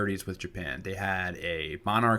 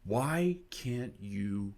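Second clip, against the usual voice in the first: slow, weary Dutch bouncer; exasperated bouncer; much slower than usual. Retold or imitated. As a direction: drag it out like a fed-up bouncer. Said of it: "the bouncer is like".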